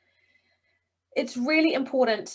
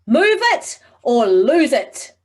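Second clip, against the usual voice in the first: slow, much louder, forceful delivery; with conviction; 3 semitones higher, 9 dB louder, much slower than usual. Shown as a demonstration. Coach showing the class a forceful, urgent command. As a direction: say it like life and death depends on it. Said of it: "I want it more".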